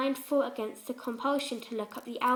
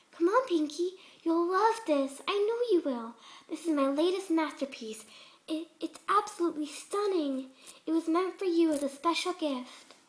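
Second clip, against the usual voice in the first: eager; 6 semitones higher than usual. A narrator's reading. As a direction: coax her on, brimming with eagerness. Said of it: "her voice more eager than ever".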